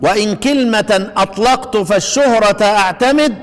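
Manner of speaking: slow, measured reading of didactic verse; verse recitation. Shown as a demonstration. Teacher reading the poem's lines to students, slow verse recitation. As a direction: recite the couplet slowly, drawing out the long vowels. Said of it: "قراءة الأبيات عشان اللي يحب يقرأها".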